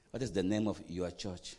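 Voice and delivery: low question, "your church" set apart and stressed. Shown as a demonstration. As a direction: lean deliberately on "your church". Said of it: "I'm emphasizing the word your church".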